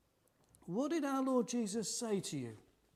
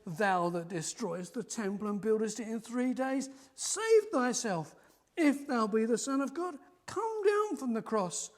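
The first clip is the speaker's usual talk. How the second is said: reviling taunt; 5 dB louder than usual. Acted. Passersby taunting Jesus on the cross, louder mocking cry. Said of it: "they reviled him".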